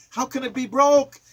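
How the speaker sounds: high, loud disbelief; outraged high cry. Real, not acted. Poet protesting that Social Security is broke, in high, loud disbelief.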